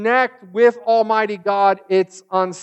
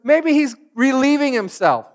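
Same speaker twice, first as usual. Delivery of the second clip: higher, sly sarcastic jab; mocking; 5 semitones higher than usual. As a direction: poke fun with a smirk. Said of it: "he's making fun of them".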